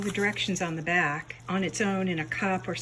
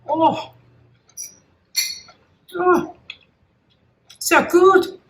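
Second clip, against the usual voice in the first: delighted tasting; 10 semitones higher, 13 dB louder, slower than usual. Real, not acted.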